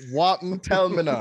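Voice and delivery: imitating a Jamaican patois greeting. Host repeats husband's greeting in Jamaican patois. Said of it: "the direct translation".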